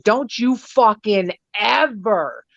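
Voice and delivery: lighting into someone, retold; retold angry telling-off. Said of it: "she is just lighting into this bitch".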